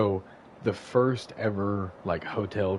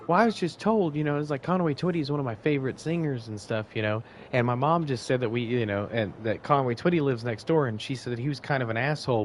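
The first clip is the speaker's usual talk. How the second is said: a hint of a giddy young fan, higher at first; lightly voiced excited girl gushing; eager young woman; 3 semitones higher than usual. Neighbor's daughter gushing at the old man's door, lightly voiced.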